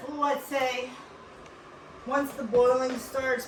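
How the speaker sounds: ordinary delivery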